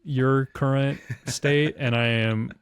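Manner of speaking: slow, drawn-out god-tier superiority; mock lofty condescension. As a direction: play it grandly above it all, in slow measured phrases. Mock baller put-down of an opponent.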